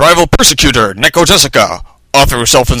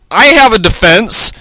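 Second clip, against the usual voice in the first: dramatic lawyer; 8 semitones higher than usual. A narrator's reading. Lawyer countering in court.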